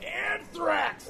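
sudden high shout of a band's name; yelled name. Retold or imitated. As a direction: call out across the parking lot. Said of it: "you just yell out".

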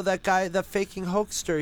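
ordinary delivery

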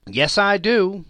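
high, loud, shameless; brazen. A narrator's reading. Charwoman boasting to Joe, high and defiant. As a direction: toss it back defiantly.

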